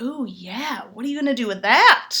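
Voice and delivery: mock sexy coo; sultry flirting. To a texting gentleman, a mock sultry coo. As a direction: purr it like dirty talk. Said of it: "And I'm like".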